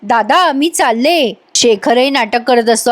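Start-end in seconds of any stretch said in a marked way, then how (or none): 0.0-1.3 deliberately pointed. Retold or imitated. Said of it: "ती मुद्दाम म्हणते".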